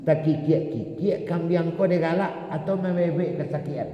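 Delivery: high bleating goat voice. Acted. Preacher imitating the suffering goats, high bleat.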